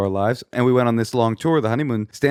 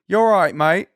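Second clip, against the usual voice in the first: higher British-sounding fake Australian; attempted Australian accent; 6 semitones higher, 3 dB louder than usual. Shown as a demonstration. Showing how Australians talk, British-leaning Australian accent. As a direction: try an Aussie greeting, sounding more British. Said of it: "how do Australians talk?".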